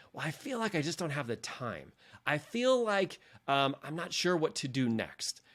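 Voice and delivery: head voice. Retold or imitated. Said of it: "your head voice".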